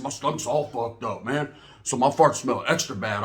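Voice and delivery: low, soft, slow sickly mumble; mock sick cellmate. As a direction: put on a meek, low cellmate voice. Cellmate explains in put-on voice.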